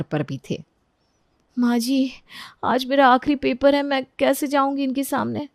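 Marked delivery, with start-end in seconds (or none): 1.6-5.5 higher, anxious voice; worried daughter-in-law. Acted. Daughter-in-law fears leaving for exam before the men, high and worried. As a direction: ask nervously for help.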